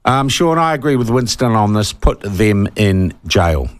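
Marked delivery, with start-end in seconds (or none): 1.9-3.7 slow angry demand. Real, not acted. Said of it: "I'm getting worked up".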